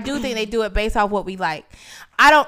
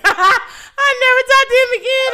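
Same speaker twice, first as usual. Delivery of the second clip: laughing; 13 semitones higher, 8 dB louder than usual. Real, not acted.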